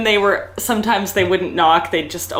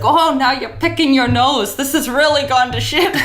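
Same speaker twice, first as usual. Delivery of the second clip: annoyed client; 7 semitones higher than usual. Retold or imitated. Client complaining, voiced.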